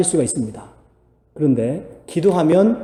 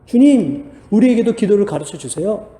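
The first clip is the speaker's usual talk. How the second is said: higher, louder call to the Lord; eager plea; 5 semitones higher, 4 dB louder than usual. Retold or imitated. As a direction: call out like eager disciples asking. Disciples asking Jesus to teach.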